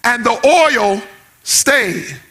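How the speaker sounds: sung, tuneful preaching over the organ; whooping preacher. Acted. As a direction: chant the story like a black church whoop. Preacher whoops the Bible story.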